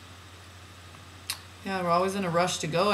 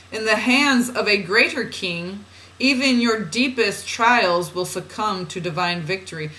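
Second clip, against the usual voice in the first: measured, deliberate spiritual reading; oracle reading; 3 semitones higher, 3 dB louder than usual. Acted. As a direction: read it out as solemn guidance. Reads channeled guidance aloud.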